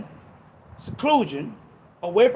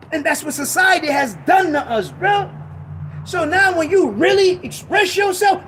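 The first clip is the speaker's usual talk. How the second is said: rising frustration; 5 semitones higher than usual. Real, not acted. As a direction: build the rant up, higher and harder. Rising frustrated rant at society.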